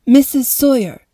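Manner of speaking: firm. A narrator's reading. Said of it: "Mom's voice was firm".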